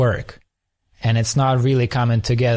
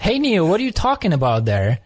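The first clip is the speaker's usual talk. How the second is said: light, high mother's coo, then quicker; lightly voiced delighted mom talking to her baby; a hint of a cooing mother; 5 semitones higher than usual. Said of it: "And she goes".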